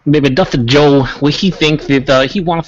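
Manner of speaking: loud wrestling promo voice, Dusty Joe; fake wrestler accent. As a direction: hype it like a pro wrestler. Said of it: "with that fake accent".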